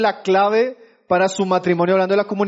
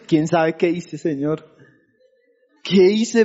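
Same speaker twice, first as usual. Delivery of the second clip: worried husband; 5 semitones lower, slower than usual. Retold or imitated. Husband worried after his wife's cold greeting, anxious. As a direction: fret under your breath about what you did. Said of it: "uno dice".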